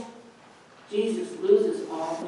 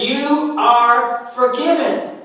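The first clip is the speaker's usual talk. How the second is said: louder and slow, "forgiven" held long and rising; screamed proclamation; 6 semitones higher, 5 dB louder, slower than usual. Acted. Pastor voicing Jesus calling out forgiveness to the congregation, loud and slow. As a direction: proclaim it like Jesus crying out over the desert. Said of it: "but he screams it".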